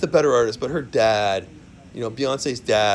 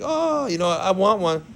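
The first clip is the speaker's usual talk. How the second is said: mocking woman voice; 6 semitones higher, slower than usual. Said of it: "it's like".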